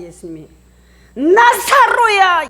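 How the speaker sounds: huge, high, long-drawn shout; commanding call. Acted. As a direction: summon the dead out of the tomb at full voice. Acts Jesus calling into tomb. (우렁차게 길게 부르는 외침)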